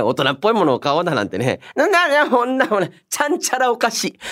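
normal talking voice

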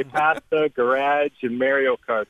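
Canadian vowels in "pasta", "garage", "Mario"; Canadian accent. Shown as a demonstration. Canadian guest owns up to his accent, Canadian accent. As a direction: show off your Canadian accent, "Mario" as MARE-ee-oh. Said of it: "I got that accent".

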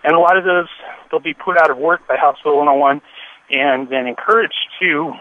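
talking while short of breath; out of breath, catching air between phrases. Real, not acted. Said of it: "I'm a little out of breath".

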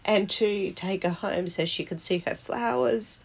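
softly choking up a little; quietly emotional, holding it together; getting emotional. Real, not acted. Grandchild remembering Nan's wish for home, getting emotional. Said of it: "now I'm getting emotional".

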